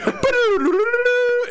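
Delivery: high cartoon whirl of sound; playful high-pitched transition jingle; imitated transition noise. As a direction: trill a scene-change effect with your mouth. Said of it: "Like, it's like".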